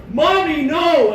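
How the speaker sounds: put-on high pleading child's cry; imitating little kids. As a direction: cry out like a scared small child. Small kids crying out.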